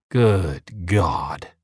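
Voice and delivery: whispered under the breath; muttered. A narrator's reading. Uva fed up with the couple, whispered mutter. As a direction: mutter it to yourself. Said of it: "he mutters".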